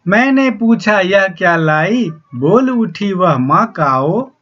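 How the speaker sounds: slow, measured reading of a verse; poem recitation. Acted. Teacher slowly reciting the poem to the students. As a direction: recite the lines slowly to the class.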